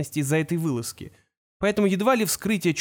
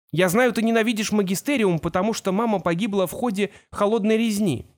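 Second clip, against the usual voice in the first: hurried; 5 semitones higher than usual. Acted. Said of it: "торопливо сказал Кол".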